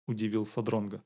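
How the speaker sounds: ordinary delivery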